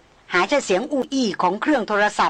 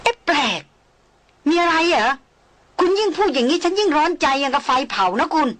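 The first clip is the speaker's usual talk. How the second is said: higher, anxious loud exclamation; loud outcry; 6 semitones higher than usual. Acted. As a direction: cry out, burning with worry. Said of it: "หม่อมราชวงศ์สาวร้องลั่น". (ร้องลั่นด้วยความร้อนใจ)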